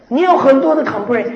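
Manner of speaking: ordinary talk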